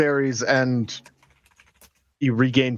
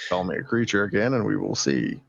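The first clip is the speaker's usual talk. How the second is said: low creature threat; 7 semitones lower than usual. Acted. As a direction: warn him low, like a beast.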